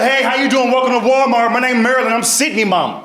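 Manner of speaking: lightly voiced mom welcoming customers; mom at Walmart. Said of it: "I'll be like".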